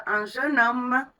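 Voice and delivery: "Un jeune homme" said slowly, with an open, relaxed vowel. Shown as a demonstration. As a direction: drop the jaw on "jeune" and take your time. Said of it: "plus large".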